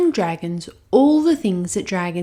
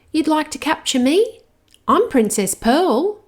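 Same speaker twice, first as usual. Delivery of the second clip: put-on little girl; 8 semitones higher, 5 dB louder than usual. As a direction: soothe the hurt dragon like a little girl. Princess speaks.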